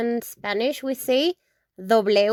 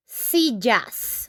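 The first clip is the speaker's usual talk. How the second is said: slow plural demo. Shown as a demonstration. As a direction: spell out "sillas" slowly for the class. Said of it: "We just add an S".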